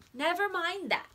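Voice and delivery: duck voice. Acted. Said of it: "said the duck".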